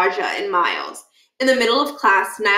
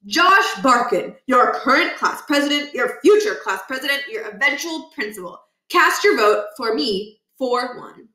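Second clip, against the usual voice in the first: slogan voice; 4 semitones higher than usual. Acted. Narrator voicing the smug slogan on Josh's poster. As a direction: read it like a smug campaign slogan.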